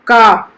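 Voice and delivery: का with the mouth wide open, long aa; teacher demo of का. Shown as a demonstration. Teacher shows pupils का with an open mouth. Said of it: "हमारा पूरा मुंह खुलता है".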